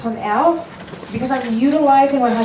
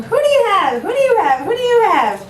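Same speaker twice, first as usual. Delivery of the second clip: much higher and louder, calling urgently across the house; mother summoning her children, excited shout; retold yelling; 13 semitones higher, 6 dB louder than usual. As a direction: call out to the kids in the next room. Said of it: "She yelled at her daughter".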